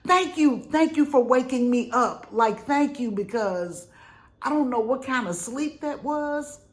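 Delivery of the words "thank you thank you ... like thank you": loud, high, laughing thanks; relieved thanks. Retold or imitated. Thanking husband for waking her, laughing relief. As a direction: gush thanks through laughter. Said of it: "And I was like".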